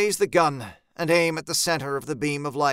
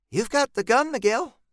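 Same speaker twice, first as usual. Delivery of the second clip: gentle reminder, not raised in volume; 8 semitones higher than usual. A narrator's reading. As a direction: reassure gently in a higher pitch. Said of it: "Jean says gently".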